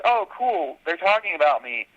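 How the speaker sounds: hammed-up delight at praise; flattered excitement. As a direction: play up being thrilled and vain. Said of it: "I'm like".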